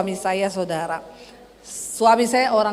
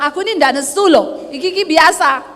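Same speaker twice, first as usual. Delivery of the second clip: louder, cross-sounding protest, retold; mock angry denial; 3 semitones higher, 5 dB louder than usual. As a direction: insist you're not angry, sounding it. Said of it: "nadamu tuh nesu". (membantah dengan nada seperti marah)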